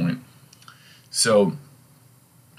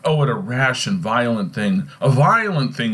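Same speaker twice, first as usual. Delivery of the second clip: acted outcry, climbing higher on the repeat; exclaiming; 4 semitones higher than usual. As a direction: exclaim it, building to the second phrase. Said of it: "he exclaimed".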